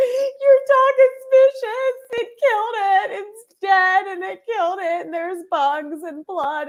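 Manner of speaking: very high, tearful, drawn-out sob-talk. Retelling a roommate's phone call about the dead animal: imitating someone sobbing. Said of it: "and she was sobbing".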